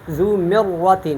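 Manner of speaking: مرۃ with a thick, held double R; heavy doubled ra. Shown as a demonstration. Teacher contrasting it with fil barr, heavy ra. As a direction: fill out the ra in ذو مرۃ. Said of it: "یہ پر ہے".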